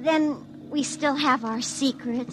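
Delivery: soft, slow, intimate murmur; tender hush. Acted. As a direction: hush it close to each other. Lovers' tender close.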